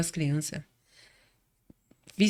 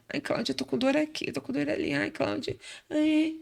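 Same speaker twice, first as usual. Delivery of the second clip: high, whiny moaning to a friend; whiny complaining; 8 semitones higher, 5 dB quieter than usual. Retold or imitated. A woman whining to her friend Cláudia about her pains, high and moaning. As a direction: moan like a self-pitying patient, pitched up and soft. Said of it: "E se eu ficar reclamando assim".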